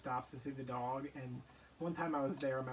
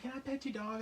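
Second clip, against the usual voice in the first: eager stranger; 9 semitones higher than usual. Retold or imitated. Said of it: "they'd be like".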